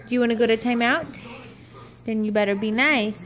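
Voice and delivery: low stern threat; sharp playground warning. Real, not acted. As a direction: warn them about timeout. Parent threatens timeout.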